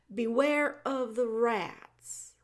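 slow, dutiful repeat of the warning; slow plain repeat. Acted. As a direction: echo his words back slowly.

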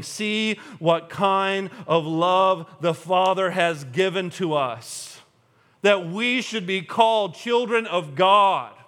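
slow, weighty quoting of a verse; emphatic scripture quote. Acted. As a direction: stretch each phrase out deliberately.

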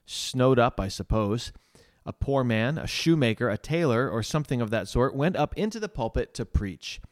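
measured, emphatic reading aloud; story reading. A narrator's reading. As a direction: read an old testimony to listeners, landing key words. Reads Spurgeon's written testimony aloud.

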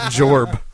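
"Jorb" with an R wedged into job; Coach Z. Retold or imitated. Quoting a cartoon coach, "Jorb" with added R. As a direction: say "Jorb", stressing the extra R. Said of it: "Like Coach Z".

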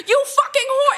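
imitating an abusive shout; mock yell. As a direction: hurl the insult like a thug. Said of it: "gooide hij dat zo op mij".

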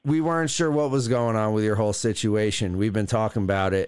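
smooth, low radio host voice. Acted. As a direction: talk like a late-night DJ. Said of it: "using some weird-ass radio voice right now".

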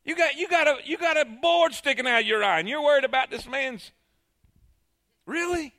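scoffing, with a high incredulous "Really?"; sarcastic mockery. Preacher voicing Jesus mocking the hypocrites, sarcastic. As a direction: needle them with mock disbelief. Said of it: "Jesus could not utilize sarcasm".

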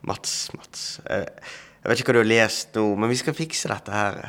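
starts in a hushed whisper, then calm and soothing; understanding tone. Retold or imitated. Psychologist friend calming Mats on the phone, hushed and soothing. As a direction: talk a friend down gently. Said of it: "veldig sånn forståelsesfull tone".

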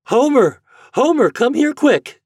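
high, loud holler for her son; urgent calling out. Acted. Mother to her boy across the yard, urgent calling. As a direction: call him over urgently at high pitch.

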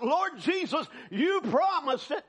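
high, drawn-out plea to Jesus; crying out. Retold or imitated. Preacher relives his cry to the Lord, crying out. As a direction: call out simply, pitched high. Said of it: "just simple cry out".

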